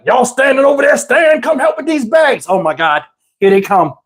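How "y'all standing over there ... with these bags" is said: put-on high, raised call to the kids; granddad calling out. Granddad calling the neighborhood kids to help, raised call. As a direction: call them over across the yard. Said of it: "my granddad was like".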